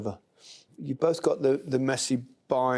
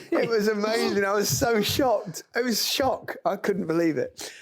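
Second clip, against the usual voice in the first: excited; 8 semitones higher than usual. Real, not acted. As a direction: still buzzing with disbelief. Recalling his shock at scoring.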